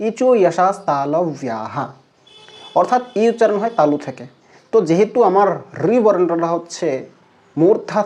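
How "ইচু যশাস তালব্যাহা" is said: slow sutra recitation. Shown as a demonstration. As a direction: recite the Sanskrit rule slowly and evenly. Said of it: "সূত্র হচ্ছে".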